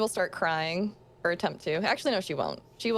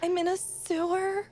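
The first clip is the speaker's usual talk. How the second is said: shocked disbelief; 9 semitones higher than usual. Acted. Girl shocked by location.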